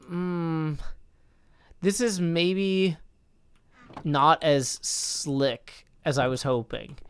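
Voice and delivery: slow, drawn-out hedging with long pauses; hesitant doubt. Retold or imitated. Streamer recalling doubts about the poem reading, slow and hesitant. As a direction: mull it over reluctantly, word by word.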